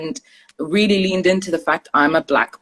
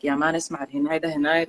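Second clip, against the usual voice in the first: casual street slang; 7 dB quieter than usual. Retold or imitated. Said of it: "you're with your friends who are like".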